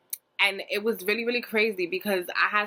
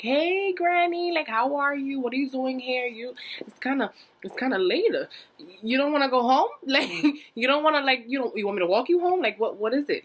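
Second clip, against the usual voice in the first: high, bright-eyed mock innocence to granny; higher sing-song cover-up voice to stall; fake innocent; 6 semitones higher, 3 dB louder than usual. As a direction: act all sweet and surprised to see her. Faking innocence to grandma.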